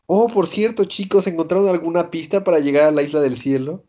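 a hint of the naive little reindeer; cheery Chopper. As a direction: ask cheerfully, unaware of the tension. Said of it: "Chopper dice".

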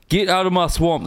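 lightly voiced Scottish ogre; rough attempt at a Scottish accent; Shrek. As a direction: have a go at a Scottish cartoon ogre. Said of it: "Think Shrek".

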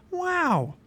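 very high-pitched marvelling; amazed. A narrator's reading. Pliable hearing of crowns and clothes, amazed. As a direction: exclaim in high wonder. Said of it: "Pliable was amazed".

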